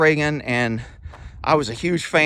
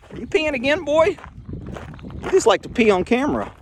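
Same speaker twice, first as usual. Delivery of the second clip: higher, playful scolding of the animal; teasing pet talk; 11 semitones higher than usual. Real, not acted. Owner teasing his animal for peeing on camera, playful high voice. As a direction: tease him like a naughty puppy.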